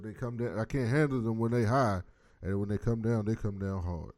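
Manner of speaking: a light Bill impression with a preacher's cadence; imitating Bill. Host lightly mimics Bill complaining about the kids, preacher cadence. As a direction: lightly put on the old man's measured cadence. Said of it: "Yo, why you talking like that".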